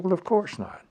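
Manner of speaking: high, offended officer voice; huffy, insulted refusal; indignant colonel. Retold or imitated. Retold heated argument with colonel.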